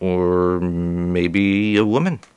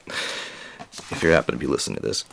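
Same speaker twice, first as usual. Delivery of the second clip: whispered; 9 semitones lower, 8 dB quieter than usual. Real, not acted. Aside to the neighbor.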